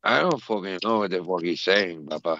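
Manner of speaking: put-on low-pitched Latino accent, falling away; mock Latino accent. Co-host complaining he can't understand, in a Latino accent. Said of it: "he got a great Latino accent".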